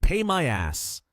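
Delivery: high, slow indignant retort; angry. A narrator's reading. Customer holding the receipt, refusing to pay, angry. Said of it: "angrily said".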